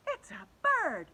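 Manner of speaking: put-on girl shouting to classmates, high and slow; yell. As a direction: call it out in wonder. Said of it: "yelled Emily".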